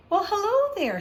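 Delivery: big, booming, high and loud hello; loud jolly greeting. Acted. Teacher welcoming a nervous new pupil, loud and jolly. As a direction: greet the child like a jolly giant. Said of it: "in a loud, jolly voice".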